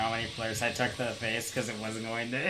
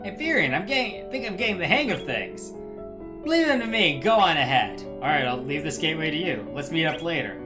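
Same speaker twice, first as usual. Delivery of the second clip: Titus voice. Pretend. Friends voicing game characters, Titus.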